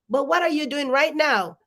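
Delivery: ordinary delivery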